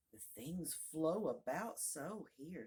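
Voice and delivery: slow, mildly complaining; plaintive. Acted. Alice puzzles over the shop's shelves, mildly plaintive. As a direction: draw it out with a touch of plaint. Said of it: "in a plaintive tone".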